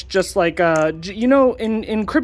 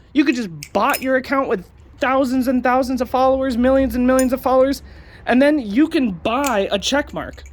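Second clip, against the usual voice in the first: raised, over-eager sarcastic pitch; 5 semitones higher than usual. Acted. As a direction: sell it like a fake ad. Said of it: "I'm being sarcastic".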